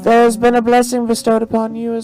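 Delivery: high-pitched madam proclaiming a blessing; mystic show madam. Acted. Madam grants a farmer a blessing, proclaiming in high voice. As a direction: deliver the blessing in a high stage voice. Plays the madam fortune teller.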